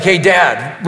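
lightly done manly voice; a hint of a manly son. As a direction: say it like a tough young man. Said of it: "real in a manly way".

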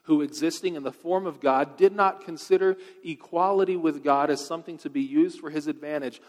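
loud, ringing scripture reading from the pulpit; preaching scripture. Acted. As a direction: proclaim the verses to the whole hall. Reads scripture at full force.

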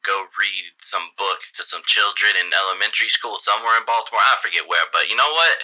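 smooth-talking sleazy politician; flirty mayor voice. Acted.

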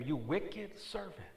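high, loud rebuke; stern master rebuking, loud. Acted. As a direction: scold the wicked servant. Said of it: "said to him".

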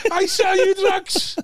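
high, slow sing-song; mock toilet attendant. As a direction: stretch it out high and slow like a dodgy seller. Imitating the drug-selling attendant.

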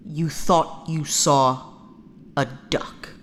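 incredulous. Acted. Incredulous echo of the computer.

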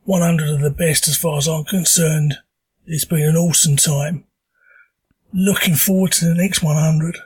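hoarse from a sore throat; talking through a sore throat. Real, not acted. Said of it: "apologise for the voice. I have got a stonking sore throat".

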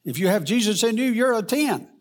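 high, loud imitated Jamaican preacher; Jamaican accent. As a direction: call it out in a lilting Jamaican accent. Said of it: "he would say in his Jamaican accent".

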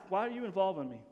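mild, even-toned asking; respectful question. Acted. Jesus asking his mother why, respectful and restrained. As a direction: ask gently, without any edge. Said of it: "not a disrespectful way".

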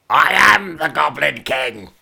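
big, drawn-out mock supervillain shout; slow, hammy bellowed proclamation. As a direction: shout it out like a hammed-up villain. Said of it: "what a thing to shout out".

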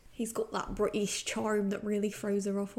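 put-on a British accent sliding into West Country farmer; failed British accent. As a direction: try posh British but land on Somerset farmer. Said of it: "that was like Farmer".

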